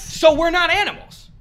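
high, astonished disbelief; surprised. Real, not acted. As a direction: say it stunned. Shocked at Google's answer.

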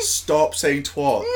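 "twat" rhyming with squat, said slowly; exasperated, slow "twot" for "twat"; mock American pronunciation of twat. Shown as a demonstration. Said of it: "oh, it's wrong".

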